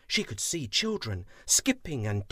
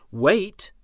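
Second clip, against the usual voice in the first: urgent call; 6 semitones higher, 9 dB louder than usual. Acted. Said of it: "but he didn't shout".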